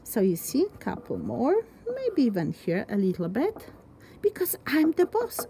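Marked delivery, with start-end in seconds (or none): 4.2-5.5 whisper. Real, not acted. Teacher drops to a whisper.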